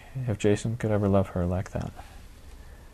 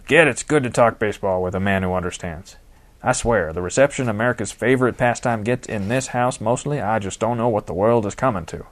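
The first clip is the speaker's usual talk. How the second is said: hearty, lightly voiced gruff manager; an old ballclub boss grumbling fondly; gruff old baseball manager; 3 dB louder than usual. D G talks baseball.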